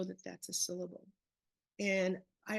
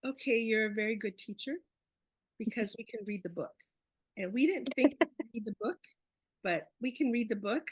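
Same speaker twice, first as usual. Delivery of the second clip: put-on fast and louder, proud children's voices; excited kids quoting; 5 dB louder, faster than usual. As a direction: play the proud kids announcing they can read. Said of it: "they said".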